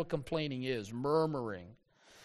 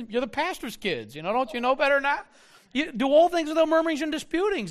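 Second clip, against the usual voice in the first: put-on high, louder scolding of the kids; parent scolding; 6 semitones higher, 4 dB louder, faster than usual. Pastor dad loudly scolding his squabbling kids. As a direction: break up the kids' fight like a stern dad. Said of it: "I say".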